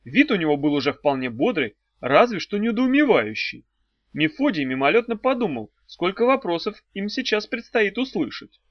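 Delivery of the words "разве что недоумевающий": plain reading voice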